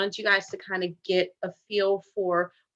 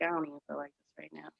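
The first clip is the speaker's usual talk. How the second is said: fast, much softer deflated mumble; down and mopey; 5 semitones lower, 14 dB quieter, faster than usual. Shown as a demonstration. Teacher showing students a down tone, dejected and soft. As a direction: sag the voice, totally unenthused. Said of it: "you're kinda down and you're like".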